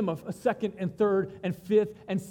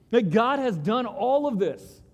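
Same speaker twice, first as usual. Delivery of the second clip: amazed disbelief; 3 semitones higher, 5 dB louder than usual. Retold or imitated. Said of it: "they'd be like".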